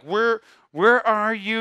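slow, stern call of a mad God; angry God calling. Retold or imitated. Preacher voicing an angry God hunting Adam, slow and stern. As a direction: demand it like a father who is angry. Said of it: "And I read it like he's angry".

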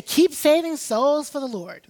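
mother's blessing. Retold or imitated. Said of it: "And she'd say".

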